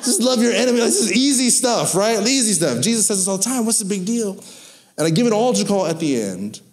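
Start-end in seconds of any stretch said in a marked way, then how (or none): 0.0-4.4 half-joking huff about easy material; mock exasperation. Preacher venting to himself about easy sermon. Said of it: "it makes me upset 'cause I'm like".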